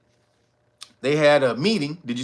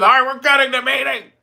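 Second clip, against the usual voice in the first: higher, louder, brisk official voice; prim official announcement; 8 semitones higher, 6 dB louder, faster than usual. Retold or imitated. Mayor politely ending the meeting, brisk official tone. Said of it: "He didn't say it like that".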